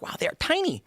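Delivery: surprised. Retold or imitated. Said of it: "you're like".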